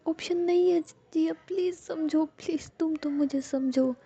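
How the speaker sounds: high, understated tearful plea; Ruhi, tearful pleading. A narrator's reading. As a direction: beg to be understood, drawing out the last pleas. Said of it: "देखती है रूही रो रही है". (हल्के रुआँसे, ऊँचे सुर में मिन्नत)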